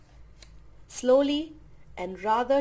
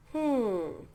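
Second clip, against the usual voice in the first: sighed. A narrator's reading. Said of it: "sighed the blue".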